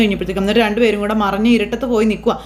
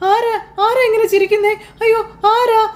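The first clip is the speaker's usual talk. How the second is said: high, crying cries of who's there; terrified babbling; 10 semitones higher than usual. Acted. Son woken by ghostly laughter, crying in terror. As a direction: wail it out like someone scared out of their wits. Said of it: "പിച്ചുമേയും പറയുന്ന പോലെ".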